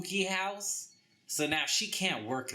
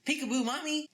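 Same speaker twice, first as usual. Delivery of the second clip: put-on high, sing-song little-boy ghost calling out; creepy ghost child; 13 semitones higher, faster than usual. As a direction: tease like a creepy kid ghost hiding in the fireplace. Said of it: "he hangs out in the fireplace and says".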